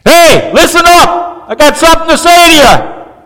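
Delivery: high, loud call to a crowd; calling out to get everyone's attention; public announcement cry. Shown as a demonstration. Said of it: "This is like".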